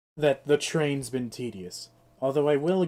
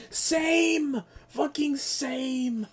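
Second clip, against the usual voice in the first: excited agreement; 10 semitones higher, much slower than usual. Real, not acted.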